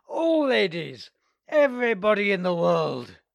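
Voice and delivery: high, loud toasting; tipsy roaring toasts; drunken toasts. Acted.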